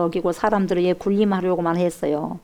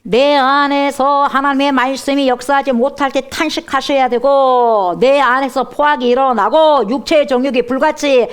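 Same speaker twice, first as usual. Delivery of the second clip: slow, loud, higher pulpit cry; impassioned preaching; 5 semitones higher, 4 dB louder than usual. Real, not acted. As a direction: press each phrase on the congregation. Preaching with rising force.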